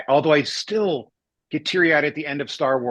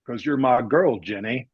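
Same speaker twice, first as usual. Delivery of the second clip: Forrest Gump; 4 semitones lower than usual. Acted. Man quoting his favorite tearjerker to friends, Forrest Gump impression. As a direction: quote the simple, tender reply, dropping down at the name. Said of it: "the movie that gets me the most is Forrest Gump".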